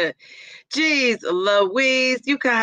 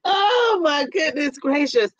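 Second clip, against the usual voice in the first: laughing; 4 semitones higher than usual. Real, not acted. Laughing hard at the comments.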